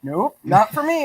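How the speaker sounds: chuckling through a slow denial; laughing. Real, not acted. Telling a racer friend she isn't crying, laughing. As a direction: laugh it off slowly, amused. Joking she shed no tears.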